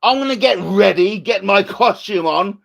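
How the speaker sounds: eager sidekick. Pretend. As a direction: gush to Batman on the phone.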